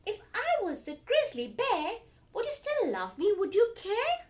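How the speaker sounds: put-on high, loud little child voice; storybook toddler asking for reassurance; pleading child. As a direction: plead like a small child testing love. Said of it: "Small said".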